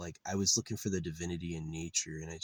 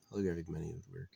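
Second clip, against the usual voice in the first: softer restatement to himself; quiet repeat; 6 dB quieter, much faster than usual. Real, not acted. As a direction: say it again under the breath.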